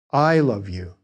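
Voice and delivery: I love you, weight on I; stress on I. Shown as a demonstration. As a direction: lean on the word I. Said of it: "italicize one of the words in the dialogue itself to show the speaker's emphasis".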